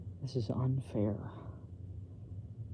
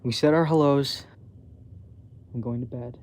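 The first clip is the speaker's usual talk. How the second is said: flustered retort; 6 dB louder than usual. Acted. Mona flustered, cutting call off.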